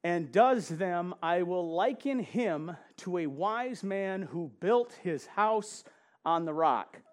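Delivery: slow, emphatic Bible reading; scripture reading. Acted. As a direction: read it out like holy writ, slowly.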